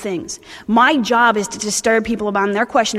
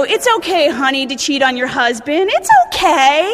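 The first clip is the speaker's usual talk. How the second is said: mock sweet. Parodying overly lenient sponsors.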